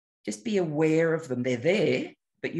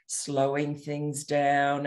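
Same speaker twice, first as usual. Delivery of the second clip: slow voice; much slower than usual. Shown as a demonstration. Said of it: "Ian's voice that is very".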